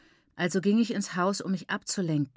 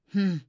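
grumbling hum. Acted. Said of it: "brummte meine Mutter".

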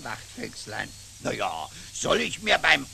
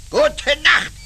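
wütend; 7 semitones higher, 7 dB louder than usual. Acted. Beleidigter Abgang des Fuchses.

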